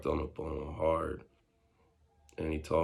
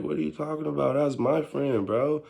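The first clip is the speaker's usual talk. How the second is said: heated retort; 7 semitones higher, 4 dB louder than usual. Retold or imitated. Angrily defending himself to the guy.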